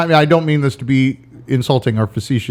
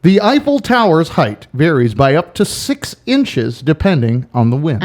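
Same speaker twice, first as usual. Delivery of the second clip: quiz host voice; slower than usual. Shown as a demonstration. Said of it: "like, you would Jeopardy".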